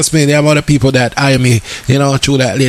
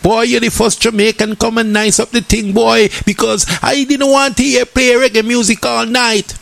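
imitating the lady; 6 semitones higher than usual. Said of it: "she was like".

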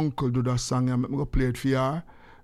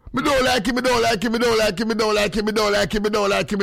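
higher, sing-song repeated taunt; voice play; 5 semitones higher than usual. Shown as a demonstration. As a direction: chant it in a put-on higher voice. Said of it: "in a, in a form of voice".

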